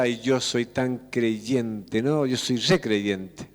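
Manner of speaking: slow, lightly voiced boasting believer; mock pious believer. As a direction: drag out the smug ay yo soy, mock pious. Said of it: "me decía".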